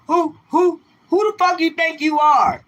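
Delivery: a hammed-up mock of the angry commenter; mocking hater voice. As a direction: parrot the hater's outrage in a shrill put-on voice.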